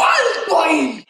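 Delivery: slow, commanding mock call; retold halting shout. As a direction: call a crowd to a stop. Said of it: "se oyó un tercer grito".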